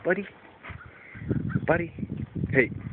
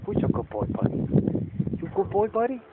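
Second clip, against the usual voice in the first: squeaky praising a dog; 7 semitones higher than usual. Real, not acted.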